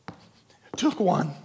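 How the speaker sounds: drawn out, each word weighed; slow right down to drive it home; slow and deliberate. Shown as a demonstration.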